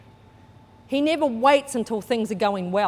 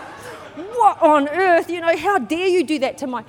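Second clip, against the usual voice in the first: indignant outrage; 6 semitones higher, 4 dB louder than usual. Retold or imitated. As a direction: sputter with outrage. Furious at the rude lady.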